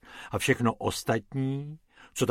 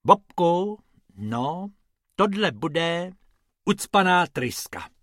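character voice; 5 semitones higher than usual. Acted. Rabbits diagnose the car.

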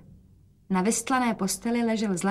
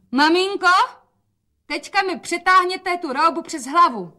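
put-on much higher, louder girlish call; bright daughter call; 10 semitones higher, 4 dB louder than usual. A narrator's reading. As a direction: call out to mother, high and loud. Daughter calls to mother. (dcera volá na matku vysokým hlasem)

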